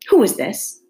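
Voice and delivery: queen sternly demands who Alice is; severe. A narrator's reading. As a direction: question like a haughty queen. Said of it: "the Queen said severely".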